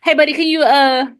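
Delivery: lightly voiced white office guy; white dude impression. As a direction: imitate a white coworker asking a small favor. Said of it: "when you're doing, like, a white dude".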